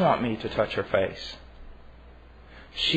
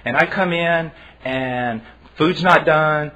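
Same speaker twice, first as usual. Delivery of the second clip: ordinary talk, nothing marked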